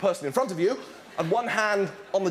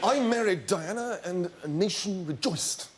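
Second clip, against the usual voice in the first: Charles; 3 semitones lower than usual. Acted. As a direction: muse it as the dreamy prince. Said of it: "I'm Charles".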